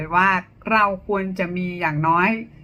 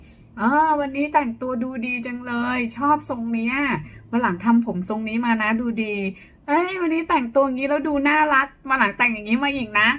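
sincere compliment; 2 semitones higher than usual. Shown as a demonstration. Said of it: "พูดให้เป็นเชิงบวกนะคะ ปรารถนาด". (เสียงชมอย่างจริงใจ)

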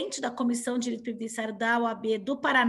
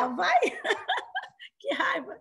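laughing; 7 semitones higher than usual. Real, not acted. Laughs off students' cold complaint.

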